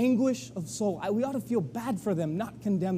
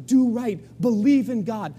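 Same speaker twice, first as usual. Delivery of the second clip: louder, earnest exhortation; urgent urging; 3 semitones higher, 6 dB louder than usual. Retold or imitated. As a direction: press them to believe. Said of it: "trying to convince them".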